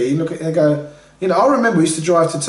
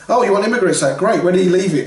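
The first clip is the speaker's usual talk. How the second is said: chief's retort; 4 semitones higher, 3 dB louder than usual. Retold or imitated. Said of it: "a Red Indian chief going".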